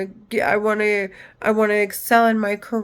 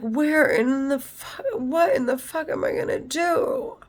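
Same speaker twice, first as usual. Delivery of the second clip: a higher, desperate cry of what now; retold panic; 6 semitones higher than usual. Telling her mom about her despair, in a higher, panicked voice.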